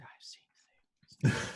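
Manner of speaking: very slow, drawn-out whisper; hammed-up horror-struck whisper; haunted whisper. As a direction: whisper it as if traumatized. Player clutches arm, acts traumatized.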